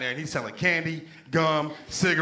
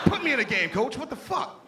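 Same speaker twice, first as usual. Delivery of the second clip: mock pleading fan; 10 semitones higher than usual. Acted frustrated fan pleading with coach.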